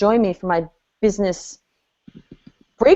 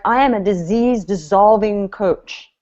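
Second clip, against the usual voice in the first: confident pitch; 3 dB louder, slower than usual. Shown as a demonstration. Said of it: "something knocking their socks off".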